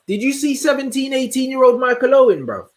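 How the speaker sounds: high, challenging disbelief; real disbelief, voice up high; incredulous. Real, not acted. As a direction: press the viewer, astonished. Disbelief at a viewer's comment.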